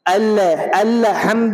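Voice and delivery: الحمد with a bounced echo after the ل; wrong qalqalah. Shown as a demonstration. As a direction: demonstrate the mistake: a rebound on the lam in الحمد. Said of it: "وہاں پہ قلقلہ نہیں ہونا چاہیے".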